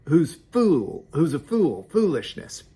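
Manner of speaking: reading the verse in a hammed-up loud voice; loud foolish woman. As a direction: proclaim folly like a brash woman. Reading proverb of loud folly.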